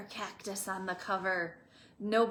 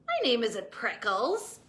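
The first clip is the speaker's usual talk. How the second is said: yell; 4 dB louder than usual. Acted. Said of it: "Hank yelled back".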